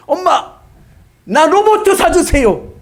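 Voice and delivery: put-on high, loud little boy asking for a robot; child begging. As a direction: plead like a small boy. Child begging mother for toy. (엄마에게 로봇 사달라고 조르는 아이 목소리)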